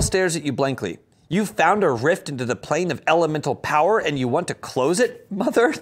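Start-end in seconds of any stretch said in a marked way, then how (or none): 1.3-5.7 lightly voiced Hale, rising on Mother; hint of Buster whine; Tony Hale voice. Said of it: "Narrator voice".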